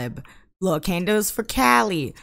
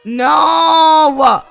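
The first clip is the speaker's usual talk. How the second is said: much higher, loud "No!"; louder and higher, refusing the game's answer; furious shout; 7 semitones higher, 8 dB louder than usual. Real, not acted. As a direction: bark it at the screen. Game refuses again.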